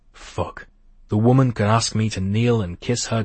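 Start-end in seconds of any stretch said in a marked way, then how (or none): 0.1-0.7 breathy whisper. Acted. His inner reaction to her.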